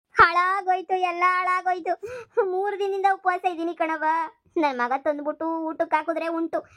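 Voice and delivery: lamenting as if in tears; put-on crying. Mother-in-law pleads hardship to daughter-in-law, put-on tearful lament. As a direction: wail out your hardships, feigning tears. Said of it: "ಅತ್ತೆ, ಅಳ್ಬೇಡಿ".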